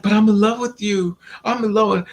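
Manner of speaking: mock tearful pleading. Retelling a crying man's confession of love, mildly mock tearful. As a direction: plead like a crying lover, half-acted. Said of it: "now he's crying to me".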